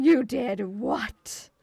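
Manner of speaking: slow, disbelieving; mock shock. Reacting to chat stealing lightning, slow mock shock. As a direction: drag out the outraged disbelief.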